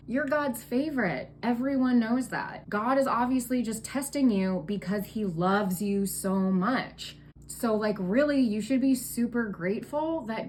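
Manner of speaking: obnoxiously cheerful friend. Retold or imitated. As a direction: play the pushy optimist who comforts too hard. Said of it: "obnoxiously fucking cheerful and optimistic".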